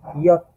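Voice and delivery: ইয়ট said as yot, not jay; German J, ইয়ট; German letter J. Shown as a demonstration. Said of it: "এটা হবে ইয়ট".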